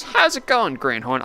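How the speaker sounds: hammed-up old timer hello; Clarence greeting.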